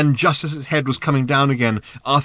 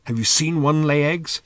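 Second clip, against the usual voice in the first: higher, doubting question; suspicious; 5 semitones higher than usual. A narrator's reading. Ford questioning Arthur about the bird, suspicious. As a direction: probe with suspicion. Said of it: "said Ford suspiciously".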